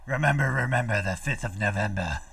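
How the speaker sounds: mock-solemn recital; put-on dramatic rhyme delivery; theatrical recitation. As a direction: intone it like an ominous rhyme. Recites rhyme theatrically after resistance line.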